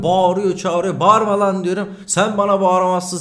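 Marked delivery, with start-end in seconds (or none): 1.0-1.6 loud, high angry shout telling him to stop yelling; shouting down a cop who is yelling at him; retold angry shout. Quarrel with shouting officer. 2.1-3.2 loud, high protest; protesting loudly to the officer; retold angry shout.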